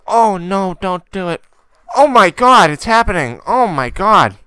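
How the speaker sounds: mock horrified woman behind; imitating scared lady. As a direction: play the frightened moviegoer. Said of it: "She was like".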